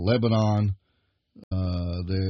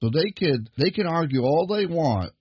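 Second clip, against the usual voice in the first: higher, rising pulpit fervour; preaching; 5 semitones higher than usual. Acted. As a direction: preach it, building toward the point. Preacher builds to full force.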